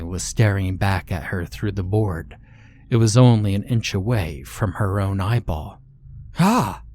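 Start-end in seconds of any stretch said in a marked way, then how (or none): 6.4-6.8 short, high startled cry; startled scream. A narrator's reading. Woman meets a staring eye at the crack, understated scream. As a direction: cry out briefly, pitch jumping up. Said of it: "she screamed".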